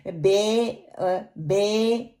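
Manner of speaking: बे with spread E; majhool vowel. Shown as a demonstration. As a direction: open the short I out into बे. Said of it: "बे नहीं पढ़ना".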